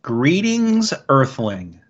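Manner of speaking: slow, spaced alien greeting. Pretend. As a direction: greet them as a visiting alien. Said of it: "what could that be referencing?".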